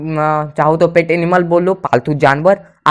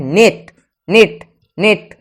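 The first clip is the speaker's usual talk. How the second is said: slow, clear model; slower than usual. Shown as a demonstration. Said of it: "ए का उच्चारण भी आपको मिल जाएगा".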